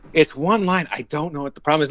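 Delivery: retold exasperation, quick second sentence; exasperated casting director. Casting director to actor after seven tries, exasperated. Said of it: "by the end of it, he was like".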